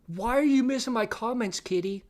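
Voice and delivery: high-pitched nagging complaint; mock indignant demand. Reading a viewer's complaint to a streamer, mock indignant.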